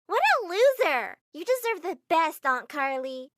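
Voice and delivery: loud, high, slow jeer; scornful little girl. Acted. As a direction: scoff at the loser boyfriend. Niece mocks Brody.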